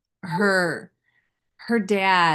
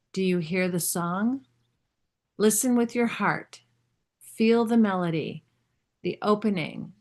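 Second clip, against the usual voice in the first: slow, hushed spiritual message read; meditative reading. Acted. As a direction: let each phrase settle, unhurried. Reads a channeled meditative message.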